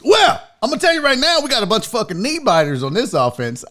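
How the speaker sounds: fast tough-talking coach; hammed-up hard-nosed bravado; tough guy coach. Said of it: "that's like his tough guy saying now".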